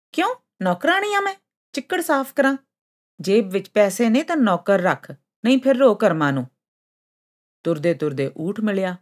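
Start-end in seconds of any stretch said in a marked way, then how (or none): 0.1-6.5 very high, affronted question; indignant refusal. A narrator's reading. Sund snubs the sea asking for cleaning, indignant. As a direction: open high and outraged, then tell them off. Haughty girl refuses the sea's request.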